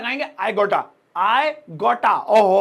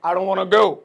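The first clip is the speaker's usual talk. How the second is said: mock English accent; 3 semitones lower, 4 dB louder, much slower than usual. Shown as a demonstration. Posh English demo continues.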